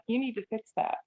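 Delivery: lightly imitated scolding mom. Parent correcting a struggling teenager, lightly voiced mom voice. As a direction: put on a hint of a mom's telling-off tone. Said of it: "Do you hear the mom voice?".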